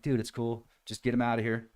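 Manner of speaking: telling the friend to take him away; quiet, calm. Retold or imitated. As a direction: murmur it calmly aside. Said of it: "And I'm like".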